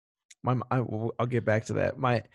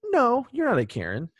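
lightly reassuring, pitched up; reassuring daughter. Retold or imitated. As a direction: soothe her mom with a laugh in it. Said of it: "I was like".

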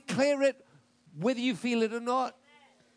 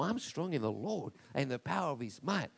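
quiet affirmation; 7 semitones lower, 5 dB quieter than usual. Shown as a demonstration. Quieter correct declaration.

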